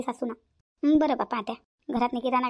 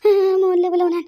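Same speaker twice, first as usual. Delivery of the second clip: high, tearful pleading that rises into loud sobbing; comic overblown sob story, higher and louder; crying in pain; 4 semitones higher, 4 dB louder than usual. Acted. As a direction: beg between sobs for someone to fetch the son. Aunt crying, begging for help.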